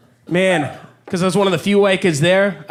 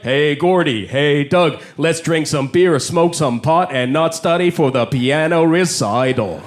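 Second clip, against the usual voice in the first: lower, dopey white-guy caricature; stupid white guy; 4 semitones lower, slower than usual. Retold or imitated. Chinese comedian mocking how white people talk, dopey white-guy voice. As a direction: play a dim slacker, dropped low. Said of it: "they sound so stupid. Every day they're like".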